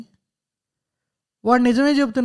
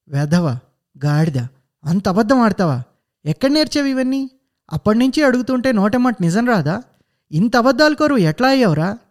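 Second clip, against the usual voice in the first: louder, rising angry scolding; furious shouting; 4 semitones higher, 4 dB louder than usual. Acted. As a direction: yell at the lying son in a rage. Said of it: "అరుస్తూ ఆవేశంతో రొప్పుతోందామె". (ఆవేశంతో అరుస్తూ తిట్టడం)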